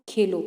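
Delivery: "खेलो" loud and falling, on its own; set apart after pause. Shown as a demonstration. Mother in the example tells the child to play, खेलो set apart. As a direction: land खेलो firmly as a separate command. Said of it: "मत के बाद इसमें विराम चिन्ह है".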